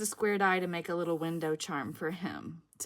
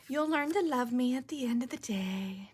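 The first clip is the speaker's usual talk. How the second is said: mock-sweet, higher put-on voice; joking plea; 4 semitones higher than usual. Crafter jokes with new viewers about liking her quirkiness, playfully. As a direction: tease them in a raised, playful lilt.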